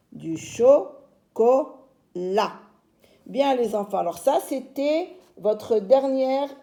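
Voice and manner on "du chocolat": "chocolat" split cho, co, la with gaps; syllabes détachées. Shown as a demonstration. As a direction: leave a pause between the syllables of "chocolat". Teacher rereads word in syllables. (« chocolat » découpé, pauses entre les syllabes)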